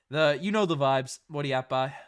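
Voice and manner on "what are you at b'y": put-on Newfoundland accent. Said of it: "make me break out the Newfoundland accent".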